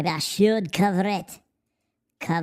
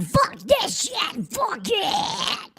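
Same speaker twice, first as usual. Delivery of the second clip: mock rant; much slower than usual. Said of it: "I'm like".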